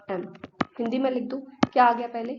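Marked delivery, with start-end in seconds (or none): 0.1-0.3 "एम" said as "em", vowel sound first; pronouncing the letter. Shown as a demonstration. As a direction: say "एम" clearly as "em". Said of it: "एम को pronounce करते हैं".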